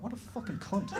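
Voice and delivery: laughing through a muttered insult. Retold or imitated. Cursing the drummer in thought, laughing. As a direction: swear at him, laughing it off. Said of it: "And I thought".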